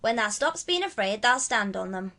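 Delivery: country lad, cheerfully reassuring; renewed cheer. A narrator's reading. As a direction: encourage in Yorkshire dialect. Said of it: "with renewed cheer".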